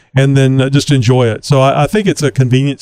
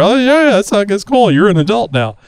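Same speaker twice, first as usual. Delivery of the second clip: mock approval; 6 semitones higher than usual. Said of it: "and you're".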